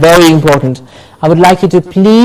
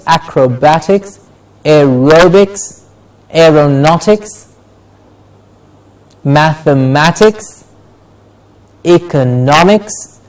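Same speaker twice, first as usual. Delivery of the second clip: "acrobatics, aerobics, aeronautics, mathematics, economics" with the next-to-last syllable stressed; spaced list "acrobatics, aerobics, aeronautics, mathematics, economics", leaning before each ending; stress before -ics. Shown as a demonstration. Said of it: "the syllable before ix is stressed".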